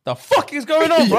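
high-pitched, baffled mock outrage; retold angry disbelief. Storyteller reacting to his friend speaking French, incredulous mock anger. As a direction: blurt it out as the stunned friend. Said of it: "Bro, I was so angry".

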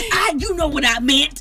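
mock excuse. Acting out the caller's excuse.

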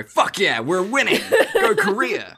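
a hammed-up diplomat celebrating a win; mock gloating cheer. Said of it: "didn't become the secretary of the U N and go".

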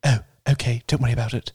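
lightly put-on posh British heroine; Rey. Shown as a demonstration. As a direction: demonstrate a posh British character voice. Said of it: "Rey's voice sounds like this".

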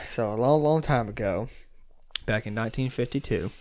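hushed, secretive storytelling; giggly prank whisper. Real, not acted. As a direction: tell it low like a secret. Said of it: "Why are you whispering into the mic?".

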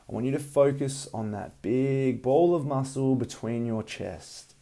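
calm breathing guidance, unhurried; soothing massage murmur. Acted. Leads a guided meditation.

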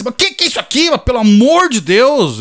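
high, stunned disbelief; can't believe what he's hearing; baffled outrage. Retold or imitated. Customer baffled by the sign.

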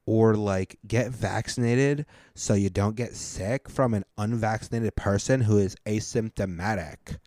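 lightly mocking idiot read, drawn out in places; a hint of a slow-witted texter. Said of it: "I try to read it like an idiot".

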